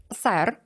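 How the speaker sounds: сер with the stress on е. Shown as a demonstration. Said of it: "з наголосом на «е»". (наголос на е в слові сер)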